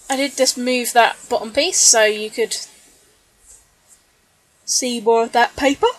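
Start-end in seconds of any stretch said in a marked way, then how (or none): 4.6-5.9 talking through a yawn; stretched out by a yawn. Real, not acted. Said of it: "yawning away there".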